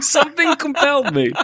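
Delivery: high, loud, through laughter; helplessly amused, voice way up; laughing. Real, not acted. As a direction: squeeze the words out while cracking up. Cracking up at own story.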